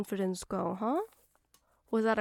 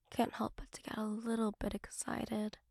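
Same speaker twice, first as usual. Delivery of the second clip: teasing whisper; 6 dB quieter than usual. Acted.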